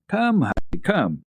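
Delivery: calling out. A narrator's reading. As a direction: call her over eagerly. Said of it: "Clara called out to her".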